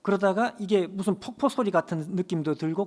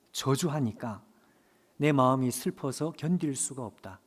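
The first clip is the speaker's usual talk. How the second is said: sad, tender voice of God. Retold or imitated. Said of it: "너무 슬픈 음성, 그리고 너무 부드러운 음성".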